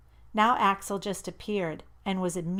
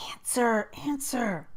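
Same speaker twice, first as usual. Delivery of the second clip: urgent whispered plea; impatient whisper; 5 semitones higher than usual. A narrator's reading. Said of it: "I whispered intolerantly".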